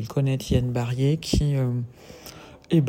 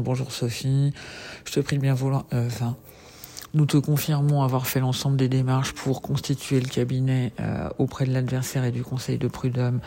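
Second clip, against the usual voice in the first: dictating a letter, punctuation spoken; dictée. Real, not acted. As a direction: dictate it for the secretary. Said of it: "je vous fais une petite dictée". (dictée de courrier)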